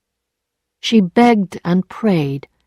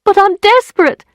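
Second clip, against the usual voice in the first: high, loud tearful plea; desperate cry; 13 semitones higher, 5 dB louder than usual. Acted. Emma in tears pleading with Lheureux, crying out. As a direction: cry out in despair.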